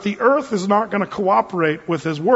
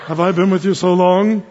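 mock-solemn stern Jesus, evenly measured; beady-eyed movie Jesus; 4 dB louder than usual. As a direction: imitate a humorless Jesus reproaching a disciple. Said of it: "beady eye Jesus kind of look over".

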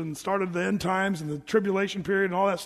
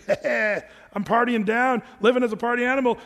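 mock party animal; 3 semitones higher, 4 dB louder than usual. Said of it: "don't just kinda say".

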